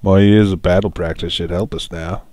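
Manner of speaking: loud, put-on Australian, trailing unsure; a hammed-up Australian, trailing off; mock Australian. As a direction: Prince Rince, unsure, in a rough Australian accent. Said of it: "I guess he's Australian now".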